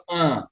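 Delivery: a dull, closed "Uh" at speaking pitch; closed uh vowel. Shown as a demonstration. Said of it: "and whenever you want, you'll go".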